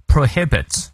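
Prohibits with the stress on -HIB-; teacher's model of Prohibits, weight after the first syllable; stress on later syllable. Shown as a demonstration. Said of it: "重音在后面".

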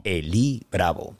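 low, slow radio announcer impression; Iván Losher. Guest recalling how his mentor introduced him, low announcer impression. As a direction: imitate a deep, drawn-out station introduction. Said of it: "cuando me hacía las presentaciones".

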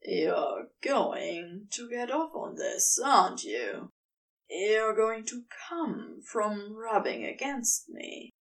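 teasing serpent lover. Acted. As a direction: lean in close and tease him. Serpent lover taunts Aziraphale.

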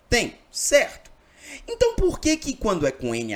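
a hint of a puzzled student asking the teacher. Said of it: "Sempre alguém vai me perguntar o seguinte".

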